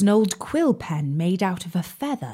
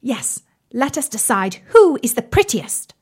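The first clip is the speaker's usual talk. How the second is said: higher, eager matches; excited; 5 semitones higher than usual. Acted. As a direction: vain and eager to compete.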